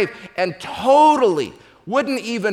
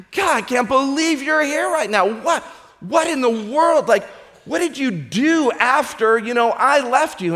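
higher, astonished wife; amazed; 5 semitones higher than usual. Acted. Wife sees her husband at heaven's gate, astonished. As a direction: gasp it out in disbelief.

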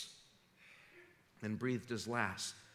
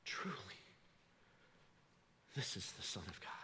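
hushed awe; 3 semitones lower, 12 dB quieter than usual. Retold or imitated. Centurion's hushed reply.

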